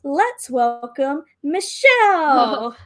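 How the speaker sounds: lightly rounded pageant host voice. Acted. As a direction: introduce like a pageant emcee. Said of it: "in her best M C voice".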